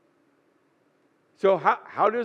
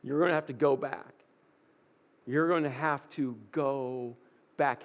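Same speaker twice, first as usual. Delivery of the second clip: gentle insistence; 7 semitones lower, 6 dB quieter than usual. Acted. God gently repeating the command.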